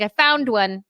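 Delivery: a light, put-on British accent, rising at the end; fake British accent. Her younger self fooling people, a mild fake British accent. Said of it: "doing the wrong accent for Liverpool".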